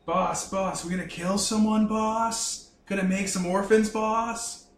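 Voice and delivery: high, excited henchman; eager thug begging for orders; eager goon voice. Acted. Goons eagerly asking their boss.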